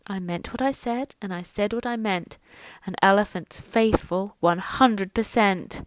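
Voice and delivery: a quiet faithful elephant; soft sad elephant. Acted. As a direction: say it softly, sadly, but sure. Sad elephant speaks in tent.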